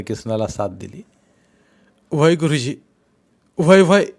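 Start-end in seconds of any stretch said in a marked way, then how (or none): 2.1-4.1 loud, high yes yes; shouted agreement. Acted. Villagers egging the teacher on, loud shouts of yes. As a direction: crowd roaring their assent.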